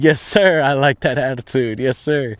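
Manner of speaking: high and loud, fired up; pumped-up yes sir. Retold or imitated. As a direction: shout your eager agreement. Eager agreement to the lender.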